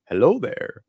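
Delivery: lightly voiced Obi-Wan hello; Obi-Wan greeting. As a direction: throw out the famous greeting like the Jedi master. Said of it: "he was dressed up as Obi-Wan".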